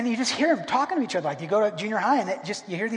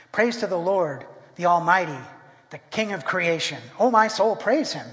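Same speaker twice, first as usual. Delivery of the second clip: mock hymn talk; 2 semitones lower than usual. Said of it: "if you talked like that".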